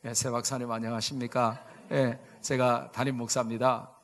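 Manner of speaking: low, soft courteous greeting; very polite. Retold or imitated. Young pastor introducing himself to the professor, very polite. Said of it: "아주 공손하게".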